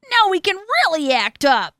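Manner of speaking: high, loud gleeful shout; excited kids' yell. A narrator's reading. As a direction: yell like kids let loose. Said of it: "yelled the kids".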